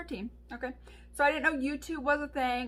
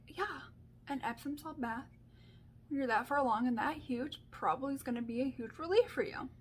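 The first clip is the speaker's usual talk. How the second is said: imitating viewers; 7 dB quieter than usual. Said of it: "You guys are all probably sitting there like".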